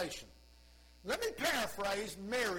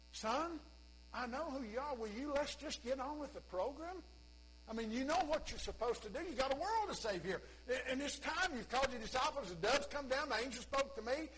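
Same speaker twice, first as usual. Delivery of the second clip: higher, pressing and impatient; impatient mother; 5 semitones higher than usual. Pretend. Mary pressing Jesus to begin, higher and impatient. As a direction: push your son to get going. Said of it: "Mama's impatience".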